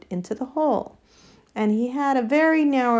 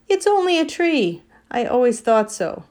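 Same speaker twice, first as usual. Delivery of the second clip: lightly voiced warthog, higher and louder; a hint of a know-it-all warthog, pitched up; dismissive warthog; 4 semitones higher, 5 dB louder than usual. Warthog telling the others it's a tree, dismissive.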